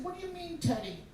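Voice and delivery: put-on small, high, soft child's voice; little sister questioning. Little sister worried about her pet, high and soft. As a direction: ask it tiny and very high. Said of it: "And she said".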